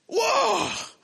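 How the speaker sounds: high, loud cry of wonder; soaring wow of amazement; amazed shout. Acted. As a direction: shout it like you can't believe it. Acted amazement at walking on water.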